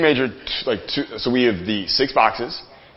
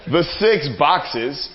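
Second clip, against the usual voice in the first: slow, holding back laughter; 4 semitones higher, much slower than usual. Real, not acted. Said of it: "I can't even say it with a straight face".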